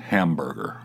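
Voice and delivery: hamburger with the last part crushed together; Californian hamburger. Shown as a demonstration. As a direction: say hamburger with the end squashed. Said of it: "that's the way you're supposed to say it".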